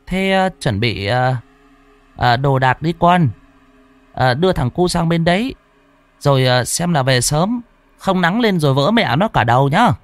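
a grandmother hurrying her son off; old grandmother. Acted.

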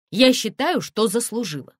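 loud, high insistence; demanding. Acted. Тонечка demands an explanation from the director, loudly. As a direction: press hard for what you're owed.

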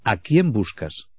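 slow, gentle asking; gentle question. Retold or imitated. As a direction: draw the question out tenderly. Repite la pregunta de Jesús. (pregunta lenta y tierna)

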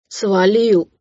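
curt, forced-out dismissal; seething order. A narrator's reading. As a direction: send him packing through clenched teeth. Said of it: "процедил Никола".

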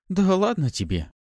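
high-pitched, offhand scoff; dismissive scoff. A narrator's reading. Pafi waving away the narrator's worry, scoffing. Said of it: "хмыкнула Пафи".

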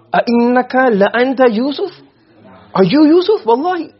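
high, incredulous mock question; retold shock. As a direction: ask it like you can't believe who it is. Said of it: "They were shocked".

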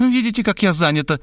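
high, smug excuse; woman showing off her busyness. Acted. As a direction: brush him off importantly. She answers her phone.

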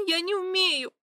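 high, sobbing wail; sobbing cry. A narrator's reading. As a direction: cry it through tears. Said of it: "всхлипнула".

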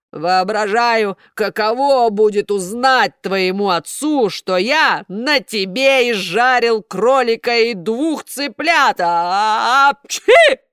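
loud slow menacing puppet master; gloating threat. A narrator's reading. Karabas gloats over roasting Buratino, loud and slow. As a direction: relish the threat, then sneeze.

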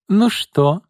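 high, loud demanding question; stern mistress. Acted. Mistress of the house demands results from the girls, imperious. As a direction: demand an answer like an imperious lady. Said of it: "осведомилась Изольда".

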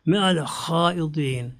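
drawn-out Quranic chant of the verse; slow Quran recitation; slow Arabic recitation. Acted. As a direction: recite the Arabic slowly, as in prayer.

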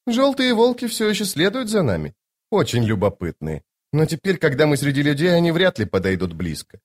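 high-pitched lady, dropping at phrase ends; playfully confident noblewoman, voice lifted high; self-assured sorceress. Acted. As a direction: speak as a lofty, teasing enchantress. Voices Lady Envy in dialogue.

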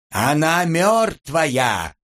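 high, drawn-out cry of protest; indignant high-pitched outcry; alarmed wail. A narrator's reading. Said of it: "завопил Антип".

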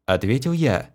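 ordinary delivery

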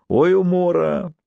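laughing. A narrator's reading. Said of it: "захохотал он".

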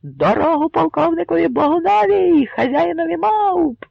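геройський вигук; shouting herald. Acted. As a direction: bellow to clear the crowd for Bohun. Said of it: "кричав Кремезний".

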